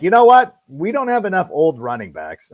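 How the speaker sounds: high, loud sarcastic voice; mocking the Cowboys front office, high and sarcastic. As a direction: lampoon the Cowboys' logic.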